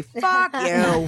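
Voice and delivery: high, laughing mock outrage; retold indignant retort. Retort to Twitter advice-givers.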